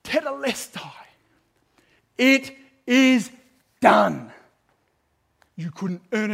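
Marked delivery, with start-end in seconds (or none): 0.0-4.3 triumphant declaration. Retold or imitated. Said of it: "He says".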